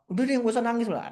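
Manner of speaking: a hint of a tired parent telling a kid to stop crying; dismissive parent. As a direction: shush the child like an impatient mother. Parent hushing a crying child.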